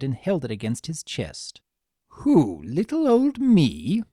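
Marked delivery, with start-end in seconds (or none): 2.2-4.0 high, slow mock-wounded little voice; wounded innocence. A narrator's reading. Mini Discord feigning hurt innocence, high and wounded. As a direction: play the tiny angel Discord, hurt and innocent. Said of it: "answered in a wounded voice".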